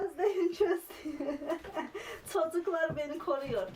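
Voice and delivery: laughing through mock cries; laughing cry. Real, not acted. Laughing and crying out. (gülerek feryat)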